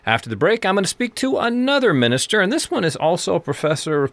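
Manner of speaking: upbeat announcer read into the break; on-air host voice; radio host intro. Acted. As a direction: present the show like a radio host. Radio show intro and outro.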